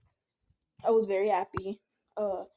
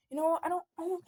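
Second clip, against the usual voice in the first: higher-pitched, mock-exasperated mom; 8 semitones higher, faster than usual. Kid imitating mom scolding about the closed room, exasperated and higher. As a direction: imitate mom losing patience. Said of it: "my mom was just like".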